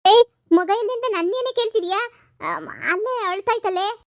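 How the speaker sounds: husband indignantly answering back; husband's retort. Acted. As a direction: snap back at the wife.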